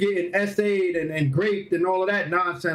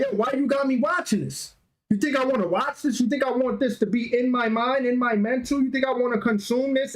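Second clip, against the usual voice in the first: a touch of heated ranting; mild mock telling-off of his date; retold cursing out; 3 semitones higher than usual. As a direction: replay the argument, mildly riled up. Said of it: "cursing out the woman I'm dating".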